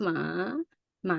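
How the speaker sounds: "Ma" drawn out, dipping then rising. Shown as a demonstration. Tutor confirming the last tone for a student, rising. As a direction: swing "Ma" up from a low start. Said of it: "Rising, right?".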